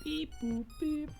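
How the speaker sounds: high slow robot beeping. Pretend. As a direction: beep like a little robot. Imitating robot noises.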